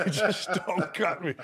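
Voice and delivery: laughing echo of his own punchline. Real, not acted. Laughing repeat of own joke.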